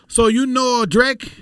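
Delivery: slow, high mock Filipino accent. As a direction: imitate a curious Filipino asker with a heavy accent. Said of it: "do they ask you".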